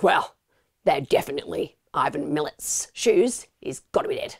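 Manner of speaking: lightly put-on Australian accent. Imagined police concluding he's dead, in a loose Australian accent. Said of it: "I've no idea why I'm doing that accent".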